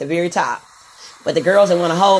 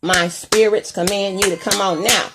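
mock spell command. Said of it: "I say".

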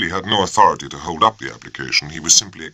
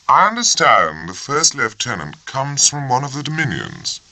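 deadpan; 9 semitones higher than usual. A narrator's reading. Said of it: "with an absence of expression".

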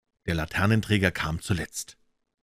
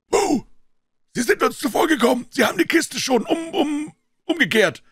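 high, loud urgent shout; calling down; 5 dB louder than usual. A narrator's reading. Man at window to beggar below, calling down. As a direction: shout the bad news down to the street. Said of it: "Er rief zu dem blinden Bettler hinunter".

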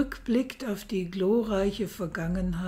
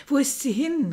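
called out; 5 semitones higher than usual. Acted. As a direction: cry "Wo ist sie hin?" out into the dark room. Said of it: "rief der Kaiser".

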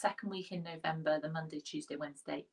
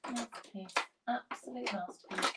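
slightly sarcastic admiration, a little higher; mock self-praise; 4 semitones higher than usual. Real, not acted. Declutterer admiring her finished drawer, mildly sarcastic. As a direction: overpraise your own work, tongue in cheek. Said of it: "I'm being slightly sarcastic".

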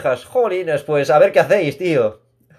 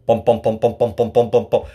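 imitated heartbeat; 8 semitones lower than usual. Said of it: "Pues el mismo sonido".

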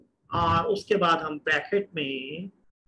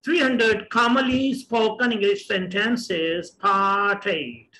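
slow title read; much slower than usual. Shown as a demonstration. Teacher announcing the lesson title slowly.

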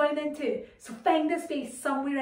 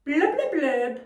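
shouting underwater; slower than usual. Shown as a demonstration. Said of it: "Okay, we say".

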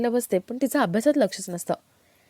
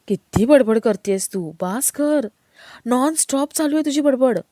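exasperated; 3 semitones higher, 4 dB louder, slower than usual. Acted. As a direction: act out a mildly exasperated plea to stop the chattering. Husband fed up with nonstop chatter.

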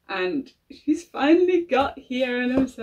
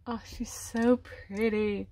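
hushed, breathy whisper of admiration; awed whisper; 6 dB quieter, slower than usual. Real, not acted. Fan gazing at her new doll, whispering in awe. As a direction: whisper it like she's too precious to disturb.

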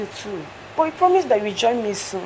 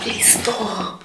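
whispered plea; hushed please stop; pleading whisper. Acted. Pleading whisper between lovers.

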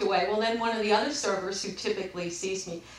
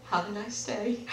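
softer, composed sign-off; very calm; 5 dB quieter than usual. Retold or imitated. Customer ending a fruitless call, very calmly. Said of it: "So I very calmly said".

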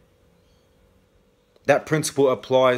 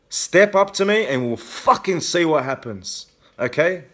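raised, furious warning to the perps; angry threat; 4 semitones higher than usual. Real, not acted. Daring the perps to step up, in a heated angry challenge. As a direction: threaten them, real anger rising. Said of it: "Yes, I'm angry".

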